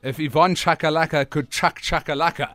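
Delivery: tongue twister through a mouth guard; slurring around a gum guard. Real, not acted. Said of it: "tongue twister with your mouth guard".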